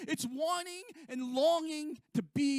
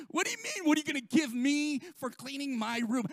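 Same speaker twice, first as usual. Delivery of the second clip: mock kid voice; 3 semitones higher, 4 dB louder than usual.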